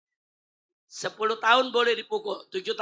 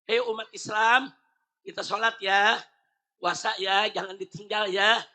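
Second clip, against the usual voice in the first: gentle invitation; 4 semitones lower than usual. Retold or imitated. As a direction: invite them kindly, like a friend. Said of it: "Itu saya ngajak".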